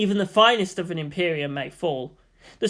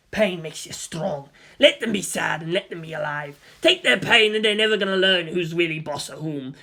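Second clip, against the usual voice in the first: stern inner voice. Acted. Inner figure lecturing Shinji.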